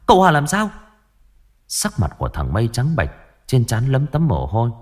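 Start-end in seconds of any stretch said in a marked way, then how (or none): 0.1-0.7 much higher and louder, panic rising; frantic question. Acted. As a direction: demand it in sudden terror. Mother hears son is hurt. (hỏi dồn hoảng hốt, cao và to hơn)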